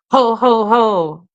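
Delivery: loud chest-voiced belly ho ho; Santa ho ho ho. Shown as a demonstration. Teacher demonstrates chest-resonant Santa laugh. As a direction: drop into the chest and pump each ho. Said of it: "Dig in deep".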